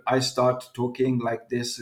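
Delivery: slow, lightly Arab-accented broken English. Shown as a demonstration. Guest mimicking himself among Arab friends, light Arab accent. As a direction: slip into a slight Arab accent, slowly. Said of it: "their English is not so good".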